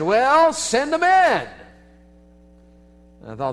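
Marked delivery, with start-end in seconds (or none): 0.0-1.5 inner voice. Retold or imitated. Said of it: "this voice inside said".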